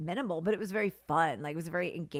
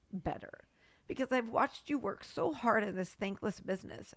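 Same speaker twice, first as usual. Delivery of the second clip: crying; 4 semitones higher than usual. Real, not acted. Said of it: "now I am gonna cry".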